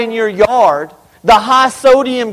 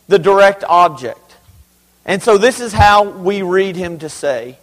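ordinary delivery

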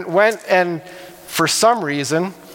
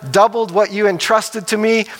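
excited servant; 4 semitones higher than usual. Acted. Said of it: "he's all excited".

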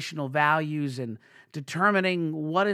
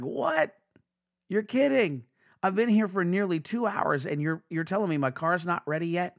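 high, incredulous what, then settling; playing up his exasperation at the counter; retold frustrated disbelief; 4 semitones higher than usual. To the tire staff, mock-exasperated disbelief. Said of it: "I was frustrated".

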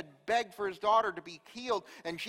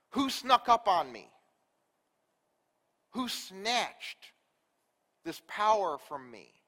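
mock indignant demand, a bit louder; imagined anger; 4 dB louder, slower than usual. The expected angry Jesus confronting the crowd, mock indignant. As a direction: play the offended healer, half-hearted. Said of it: "that he's mad".

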